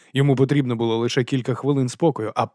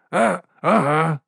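higher, slow hesitant grunt; Nobby's voice; 6 semitones higher, slower than usual. A narrator's reading. Нобі з-за спини капітана, невпевнено. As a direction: sidle out from behind.

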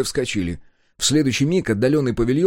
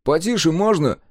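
annoyed; 7 semitones higher, 3 dB louder than usual. Acted. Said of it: "сердито сказал Егор".

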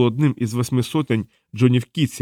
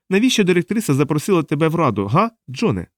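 lightly voiced, higher-pitched questioner; interrogating woman; 6 semitones higher than usual. Diana questions captive John about the council, probing. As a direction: press the captive for an answer.

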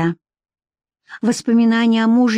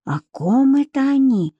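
higher, puzzled question; surprised thought; 5 semitones higher than usual. Acted. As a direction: wonder it to yourself in surprise. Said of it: "удивлённо подумала Вика".

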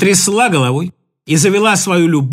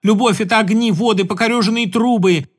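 Katka's love song. Acted. Katka pleading with Igor to fly away with her. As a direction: pour out a desperate love lament. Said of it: "Любовная песня Катьки".

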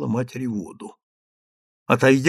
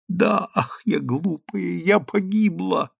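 despairing lament; 6 semitones higher, slower than usual. Acted. Daughter despairs.

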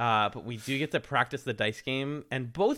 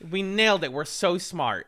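higher, excited boasting; mock self-congratulation; 6 semitones higher, 5 dB louder than usual. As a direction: imitate a team cheering itself. Acting out teams' triumphant montage.

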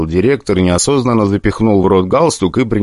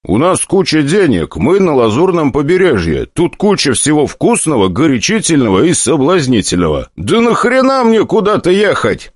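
high, eager, persuasive push; rising to an incredulous high cry; excited; 9 semitones higher than usual. Acted. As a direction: sell him on the fun. Hero argues for partying.

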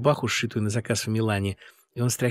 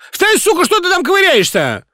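high shrieking command; furious shriek; 12 dB louder than usual. A narrator's reading. Singer screaming at the fallen director, furious. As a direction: scream at her to get up.

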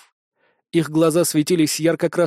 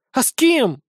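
higher, sharp indignant question; 8 semitones higher than usual. A narrator's reading. Blonde sergeant to hero about never kissing, indignant. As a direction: throw it back, offended. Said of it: "возмутилась блондинка".

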